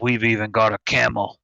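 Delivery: lightly voiced sly shopkeeper; a hint of a sly merchant pitch; Resident Evil Four merchant. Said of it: "Resident Evil Four merchant voice".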